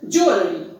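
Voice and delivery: jewelry said "JOO-uh-lree"; jewelry with ua diphthong. Shown as a demonstration. Teacher summing up the right pronunciation, jewelry with "ua". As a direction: stress JOO and glide into uh in jewelry. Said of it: "there is the sound ua".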